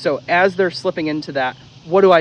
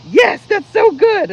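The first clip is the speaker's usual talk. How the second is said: very high, slow, gushing dog praise; high sing-song praise to a good dog; excited praise; 8 dB louder, slower than usual. Shown as a demonstration. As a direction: gush over the dog.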